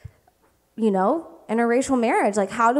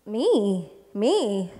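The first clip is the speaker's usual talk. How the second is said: mock complaint to God. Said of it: "being like".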